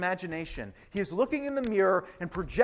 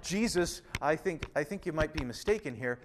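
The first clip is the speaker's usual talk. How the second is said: mild gentle objection; 3 semitones lower, 6 dB quieter than usual. Retold or imitated. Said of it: "just a little like".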